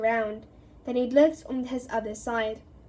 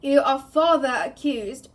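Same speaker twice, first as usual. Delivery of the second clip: loud booming accusation; bellowing; 8 dB louder than usual. Acted. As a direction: bellow it across the courtroom. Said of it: "bellowed Mister Crouch".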